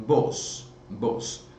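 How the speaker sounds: vos said voiceless, whispered; whispered model word. Shown as a demonstration. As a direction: whisper vos for the class to repeat. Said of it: "Repetiram aí pra mim?".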